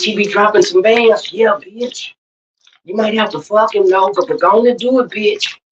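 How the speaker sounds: lightly voiced catty onlookers; mock-gossip, egging a friend on; imitating gossiping onlookers. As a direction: imitate friends sizing up a man. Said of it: "they'll be like".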